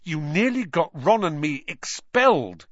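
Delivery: angry schoolboy, kept in check; fierce. A narrator's reading. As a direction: accuse him hotly. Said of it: "he said fiercely".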